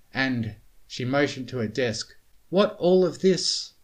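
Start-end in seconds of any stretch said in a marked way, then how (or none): 2.5-3.7 high, loud demanding. A narrator's reading. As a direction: demand an answer. Twilight demanding explanation.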